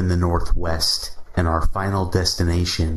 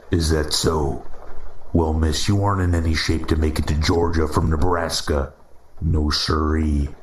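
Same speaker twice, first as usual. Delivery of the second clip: Midwestern drawl. Acted. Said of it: "he said in a Midwestern drawl".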